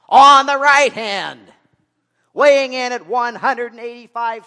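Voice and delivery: loud, high-pitched ring announcer's introduction; wrestling ring announcer. Acted. Preacher setting up the battle as a wrestling match, ring announcer voice. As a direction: boom it out like a wrestling MC, stretching the big phrases. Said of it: "wrestling. Um, I occasionally do. So let me set it up".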